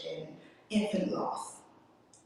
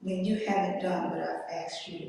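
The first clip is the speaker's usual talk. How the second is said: God's voice, whispered. Retold or imitated. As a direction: whisper it gently as the voice of God. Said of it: "God spoke to me clearly".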